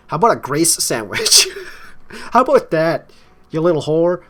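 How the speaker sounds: high, loud sneering snarl as Anna; venomous high shriek spitting the insult; nasty shout. Acted. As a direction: turn on him with a mocking jealous yell. Anna turns nasty on Jack.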